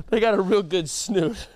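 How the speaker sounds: hammed-up repeat of the snoot line; exaggerated quote. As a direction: lean into the silly voice. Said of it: "He said".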